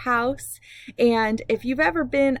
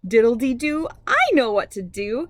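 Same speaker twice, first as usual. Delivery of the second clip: a gently raised, cheerful call; mild shout. Acted. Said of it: "shouts Marla Little".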